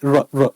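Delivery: र with the tongue vibrating; trilled r. Shown as a demonstration. Teacher showing students the tongue vibration in र, trilled r. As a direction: roll र on the tongue, drawn out. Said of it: "जीभ में उच्चारण करते समय कंपन भी होता है".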